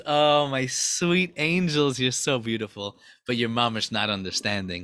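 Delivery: lightly voiced fond, indulgent parent; tender, patient God. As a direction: reassure beloved but mistaken children. God gently addressing his angels.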